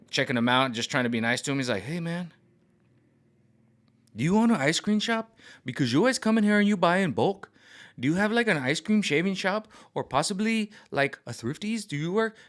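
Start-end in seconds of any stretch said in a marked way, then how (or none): 1.8-12.4 much higher, prying store clerk voice; high-pitched employee quizzing the customer; mock nosy clerk. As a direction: squeak out the clerk's nosy questions.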